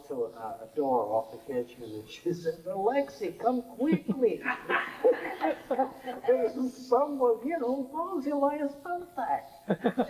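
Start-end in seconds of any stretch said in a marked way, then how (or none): 2.7-10.1 excited call. Retold or imitated. Landlady calls husband, thrilled.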